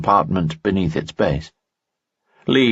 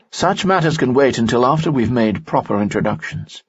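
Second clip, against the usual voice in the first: higher, courtly nobleman voice; a charming noble, pitched up; Lanson's voice; 6 semitones higher than usual. Acted. Lanson speaks in story.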